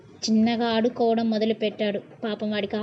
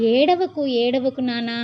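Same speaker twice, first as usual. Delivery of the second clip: Meera's anxious pleading; slower than usual. Retold or imitated. Meera pleads with the sobbing boy, anxious then calmer. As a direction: plead with the crying boy, worried, easing off. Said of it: "అని తల్లడిల్లుతూ".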